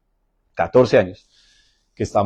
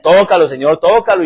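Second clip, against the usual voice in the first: fervent prayer; 6 semitones higher, 6 dB louder than usual. Retold or imitated. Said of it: "Le dije".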